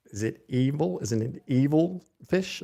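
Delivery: light mock villain voice, drawn out slowly; a hint of the movie villain, slow; Doctor Evil impression. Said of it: "I got a great Doctor Evil imitation".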